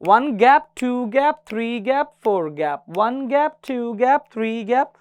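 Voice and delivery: teacher counting time aloud; rhythmic counting. Shown as a demonstration. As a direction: count "वन गैप" in steady beats. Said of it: "अब मैं आपसे करवाऊंगा ये".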